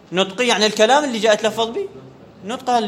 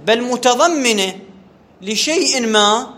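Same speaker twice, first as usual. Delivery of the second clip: slow dictation; 3 semitones higher, much slower than usual. Shown as a demonstration. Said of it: "teacher dictating slowly".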